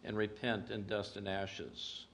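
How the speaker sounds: low, softened lament; quoted groan. Retold or imitated. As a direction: quote it as an understated groan of self-disgust. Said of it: "yet instead there is this groan".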